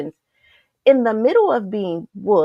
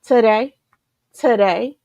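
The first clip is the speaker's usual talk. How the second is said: rallying shout; 2 semitones higher, 5 dB louder than usual. Real, not acted. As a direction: punch out Today like a motto. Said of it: "You know that's my thing".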